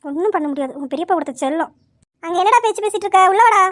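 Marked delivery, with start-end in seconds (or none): 2.2-3.6 impatient order. Acted. Orders him in again.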